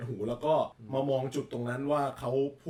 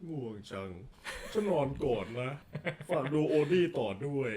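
Garfield. Shown as a demonstration. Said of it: "กาฟิลด์อิ่มแล้วทำไง".

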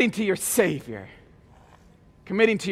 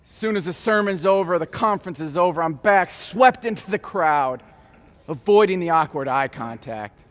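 gentle reflection; 3 semitones lower than usual. Real, not acted. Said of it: "I'm gently reminded".

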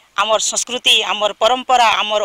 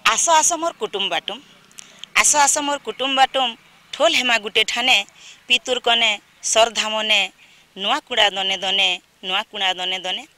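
short measured verse lines with pauses, closing repeats softer; poem recitation; 4 dB quieter than usual. Acted. Second poet sharing a Nuakhai welcome verse with viewers, measured recitation. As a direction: recite line by line, easing down on the repeats.

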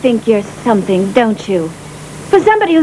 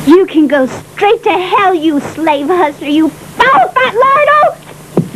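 angry insults; 5 semitones higher, slower than usual. Acted. She curses him out in anger.

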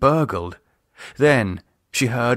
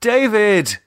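high, louder stern call of his name; sterner call; 11 semitones higher, 5 dB louder than usual. Acted. Lisa sternly rousing David, louder. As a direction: snap his name to wake him. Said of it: "more sternly".

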